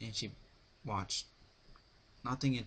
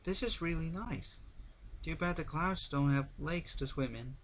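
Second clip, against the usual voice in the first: grinning; 8 semitones higher than usual. A narrator's reading. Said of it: "she said to herself with a grin".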